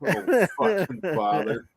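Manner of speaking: low deep Shakespeare reading; James Earl Jones voice. Pretend. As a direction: recite it like a booming actor. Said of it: "James Earl Jones reads Hamlet".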